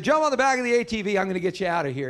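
fast, loud urgent call over floodwater; hurried rescuer's call; urgent neighbor shouting. Retold or imitated. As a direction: yell it quick to get him moving. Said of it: "He said".

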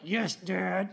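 put-on "Yes, Dad" drawn out and reluctant, the voice of a kid who won't obey; grudging yes. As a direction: drag out "Yes, Dad" without meaning it. Defiant kid answering dad.

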